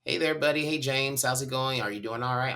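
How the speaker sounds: lightly voiced cheerful paramedic; friendly medic. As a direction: coax a dazed patient gently, a light imitation. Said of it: "and he said".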